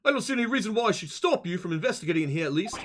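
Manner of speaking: put-on accent, formal reading; lightly voiced accented detective. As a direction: read it as a hint of a stuffy detective. Voices game character Sholmes.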